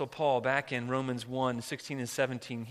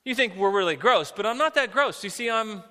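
hint of an indignant creature, pitched higher; lightly voiced maggot pleading its case, louder; offended little maggot; 4 semitones higher, 4 dB louder than usual. Maggot defending itself to the hiker, mildly indignant. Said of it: "one of the little maggots got offended".

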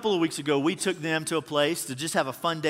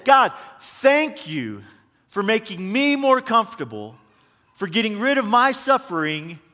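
mock grateful Jonah; 2 semitones higher than usual. Jonah voiced thanking God, ironic.

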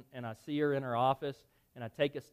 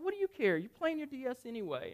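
retold irritation; 8 semitones higher, 5 dB quieter than usual. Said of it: "find myself getting angry".

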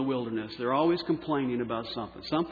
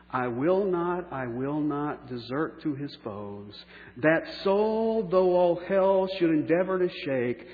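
slow, measured reading of a hymn verse, fading to a hush at the end; slow solemn recitation; slower than usual. Acted. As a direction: recite it like a cherished hymn, letting the last word drop away.

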